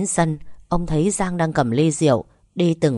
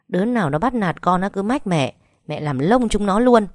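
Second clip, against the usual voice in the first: angry scolding. Acted. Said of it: "miệng không ngừng chửi bới".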